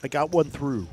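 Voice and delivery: talking while crunching food. Real, not acted. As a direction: chew and talk at once. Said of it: "Excuse my crunching".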